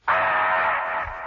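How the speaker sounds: loud startled cry; mother screaming on the phone; brief scream. Retold or imitated. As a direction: scream in shock. Mother's scream next room.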